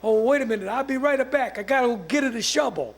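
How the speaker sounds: lightly voiced old Italian man; a hint of an Italian accent, retold; old Italian guy. Dog owner excusing himself to go fetch a shovel, light Italian accent. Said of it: "must have been some old Italian guy".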